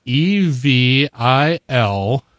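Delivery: spelling it out slowly, letter by letter; slow deadpan spelled-out letters; backwards speech. Pretend. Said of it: "Say it backwards".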